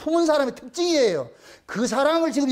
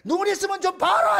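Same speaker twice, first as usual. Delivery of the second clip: mock scolding yell; 6 semitones higher than usual. Wilting tree calling to its owner, mock scolding yell. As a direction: play-act a pleading outburst. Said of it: "시들어가면서 소리를 치는 거예요".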